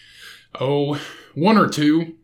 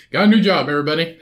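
excited announcement; 3 semitones higher, 4 dB louder, faster than usual. Real, not acted. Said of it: "announcing news to viewers".

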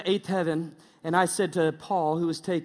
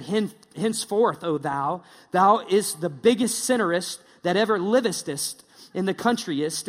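mock King James English. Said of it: "don't talk in King James".

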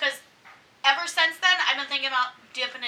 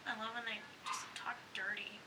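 breathy whisper, almost no voice; 8 dB quieter than usual. Real, not acted. Whispering to her co-host about dirty talk. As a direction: lean in and whisper it.

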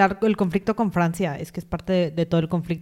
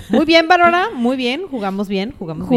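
mock cheer; 5 semitones higher, 4 dB louder than usual.

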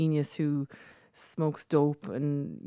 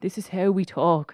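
lightly mocked stage-Irish accent; 2 semitones higher, 3 dB louder than usual. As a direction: put on a touch of bad stage Irish. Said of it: "it's stage Irish, you know".

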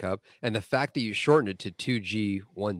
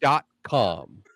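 mock sales pitch; 3 semitones higher than usual. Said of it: "reading that in an accent".

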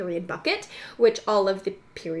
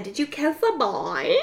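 drawn-out, higher teasing question; mock teasing question; 4 semitones higher than usual. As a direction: tease like a nosy schoolmate. Teasing friend's question acted out.

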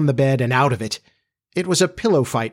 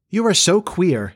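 higher-pitched puzzlement; frankly puzzled; 6 semitones higher than usual. A narrator's reading. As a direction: say it openly baffled, voice lifted. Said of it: "frankly puzzled".

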